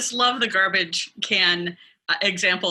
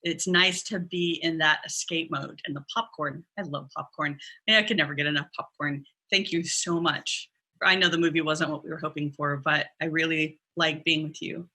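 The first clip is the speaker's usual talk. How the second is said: soft, lower, tender appreciation; grateful thanks; 4 semitones lower, 5 dB quieter than usual. Shown as a demonstration. Coach demos thanking a partner after the movies, soft and grateful. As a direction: thank him gently and softly. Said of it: "you can appreciate his efforts".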